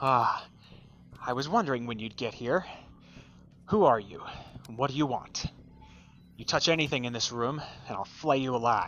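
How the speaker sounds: muffled tinny voice. Voicing a helmeted woman as the group stumbles into the space, talking inside a bucket. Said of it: "like they're talking inside of a bucket".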